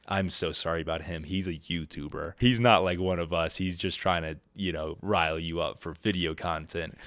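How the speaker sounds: calm an upset guard gently; apologetic. Retold or imitated. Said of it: "de-escalate the situation".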